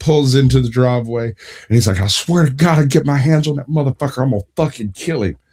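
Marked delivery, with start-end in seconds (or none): 2.0-5.3 enraged, seething, livid outburst. Retelling a friend's threat in the driveway: imitating a livid man. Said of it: "he is absolutely freaking livid".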